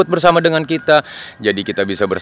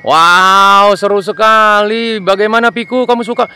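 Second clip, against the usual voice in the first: cheerful little plane, pitched high; high toy plane voice; 8 semitones higher, 3 dB louder than usual. Acted. Plane asks Piku if he likes it, high cheerful. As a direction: ask your friend brightly.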